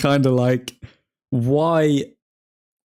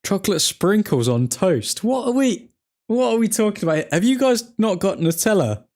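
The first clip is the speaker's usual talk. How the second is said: much higher, baffled outcry at chocolate sprinkles; incredulous disbelief; 8 semitones higher than usual. Real, not acted. Streamer reacting to Dutch viewer's breakfast, incredulous higher outcry. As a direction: sound truly baffled, voice jumping up.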